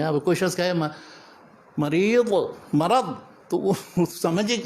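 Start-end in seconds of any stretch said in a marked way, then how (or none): 1.8-2.3 مریض ending in a heavy d instead of z; Arabic-style ض in مریض; Arabic Dad. Shown as a demonstration. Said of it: "قابل قبول بھی نہیں ہے". 2.7-3.0 مرض ending in a heavy d instead of z; Arabic-style ض in مرض; Arabic Dad. Shown as a demonstration. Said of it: "زے ادا کیجیے".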